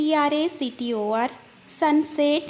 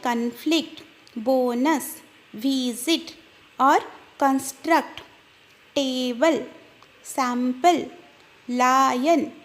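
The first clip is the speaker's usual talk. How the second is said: slow syllable demo; much slower than usual. Shown as a demonstration. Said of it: "one goes to the left".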